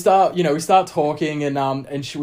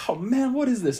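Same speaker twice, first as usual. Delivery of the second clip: higher, exasperated mock girl voice; retold girl's complaint; 10 semitones higher than usual. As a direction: lightly voice a fed-up girl at the bar. Annoyed girl at bar, retold.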